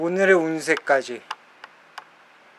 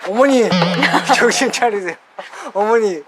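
calling out; 4 semitones higher than usual. Acted. Officer calling unconscious mother.

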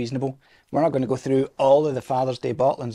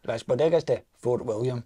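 Scottish accent. Shown as a demonstration. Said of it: "You can do the last bit in a, in a Scottish accent".

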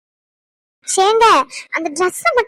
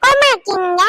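put-on a lightly higher little boy asking gently; child voice; 4 semitones higher than usual. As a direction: play a small boy worried for grandma. Child Roshan voiced by adult.

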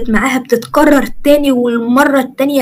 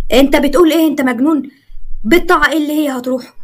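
raised, higher voice in disbelief; outraged father; 4 semitones higher than usual. Acted. Father yelling at the officer in shock. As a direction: demand answers, appalled.

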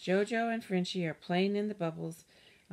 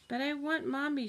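put-on high plaintive child voice; whiny little girl; 8 semitones higher than usual. A narrator's reading. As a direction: whine like a toddler missing mom. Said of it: "she says".

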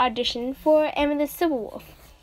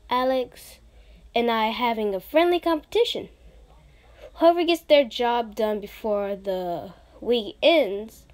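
put-on lower, more relaxed take on the same girl; Lizzie second voice; 3 semitones lower than usual. Second audition take of Lizzie to Amethyst, lower voice. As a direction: drop the voice lower and keep it easygoing. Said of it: "So this is the second voice tone".

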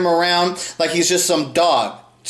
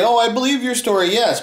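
mock agreement; 5 semitones higher than usual. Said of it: "like, saying".

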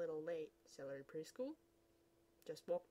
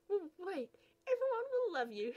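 laughing gush; 10 semitones higher, 7 dB louder than usual. Acted. Laughing eager girl.

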